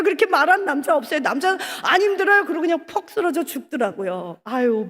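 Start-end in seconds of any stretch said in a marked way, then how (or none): 1.8-2.4 stubborn denial. Retold or imitated. Man insisting he is fine.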